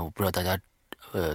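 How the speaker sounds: usual speaking voice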